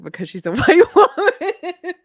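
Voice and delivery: breaking into laughter mid-sentence; laughing. Real, not acted. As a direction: crack up while reading out a teasing message. Breaks up reading husband's teasing message.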